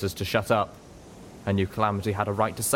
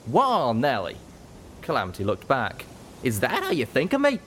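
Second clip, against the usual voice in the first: higher, hurt cowpony disbelief; lightly voiced cowpony, taken aback; startled Calamity; 5 semitones higher than usual. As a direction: pull up short, wounded.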